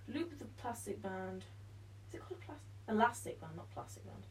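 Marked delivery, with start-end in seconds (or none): 2.1-4.2 whispering. Real, not acted. Muttering to self.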